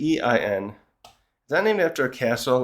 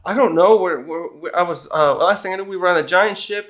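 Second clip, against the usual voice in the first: mildly flustered, higher-pitched retelling; imitated freak-out; 4 semitones higher than usual. Nami answers Zeus about where they are, mock freaking out. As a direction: play at freaking out, stumbling over words. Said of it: "she's freaking out".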